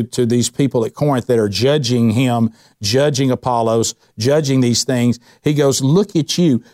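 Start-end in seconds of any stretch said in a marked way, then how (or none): 5.8-6.6 sarcastic. Retold or imitated. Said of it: "he's being sarcastic".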